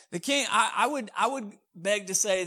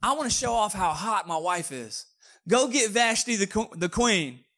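put-on a touch of boastful drunken king, louder and higher; lekko pijany król; 4 semitones higher, 4 dB louder than usual. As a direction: brag loudly to your boys, playing tipsy. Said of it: "So he's drunk".

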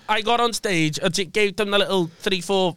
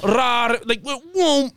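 imitated whoosh; 6 semitones higher, much slower than usual. Imitates glass thrown past him.

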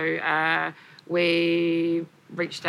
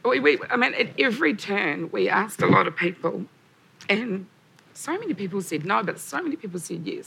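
emotional; 3 semitones higher than usual. Real, not acted. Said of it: "apologise for being a bit emotional".

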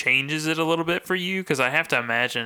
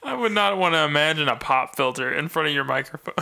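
laughing. Real, not acted. Teasing while laughing.

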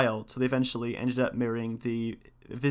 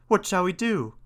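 higher-pitched worried question; dismayed cry; 7 semitones higher than usual. A narrator's reading. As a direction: ask it as a tailor at a loss. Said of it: "cried the tailor".

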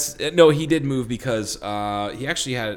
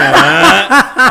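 surprised huh; 14 semitones higher, 12 dB louder than usual. Retold or imitated. Three friends turn to stare.

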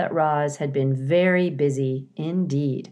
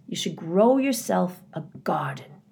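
conspiratorial whisper. A narrator's reading. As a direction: whisper the tip like a secret. Confiding advice.

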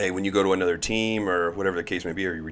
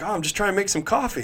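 innocent teammate; 12 semitones higher, faster than usual. Retold or imitated. Teammate's innocent reply, retold.

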